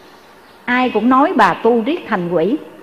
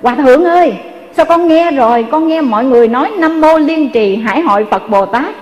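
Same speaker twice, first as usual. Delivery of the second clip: raised, mock call of an old deaf woman; calling out loud; 3 semitones higher than usual. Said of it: "bà la lên". (giọng bà cụ kêu lớn, vui mừng vì nghe được)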